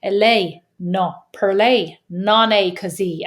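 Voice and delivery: slow, showy Italian accent; deliberately drawn-out Italian accent. Shown as a demonstration. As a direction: demonstrate a proper Italian accent. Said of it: "getting that, uh, Italian accent".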